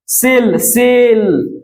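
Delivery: सेल drawn out slowly, opening on स; slow teacher's demo of सेल; S sound shown. Shown as a demonstration. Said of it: "स आ रहा है".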